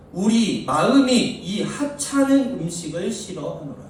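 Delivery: slow, measured scripture reading. Acted. Preacher reads the Israelites' complaint slowly, solemnly. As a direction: read the verse slowly and solemnly to the congregation.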